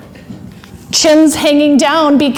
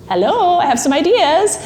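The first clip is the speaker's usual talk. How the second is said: lightly acted voice of reason piping up; thinking brain; 3 semitones higher than usual. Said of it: "thinking brain, who's been like".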